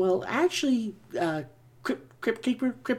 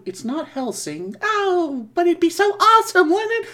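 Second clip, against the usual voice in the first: high, excited ghoulish voice; gleeful horror host; Crypt Keeper voice; 7 semitones higher, 4 dB louder than usual. Acted. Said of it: "Crypt Keeper here".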